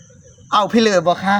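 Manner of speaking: slow, sweet offer to a customer; mock shop seller. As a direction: lightly play the polite vendor. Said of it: "สมมุติว่า คือเพิ่นมาซื้อปลาท่องโก".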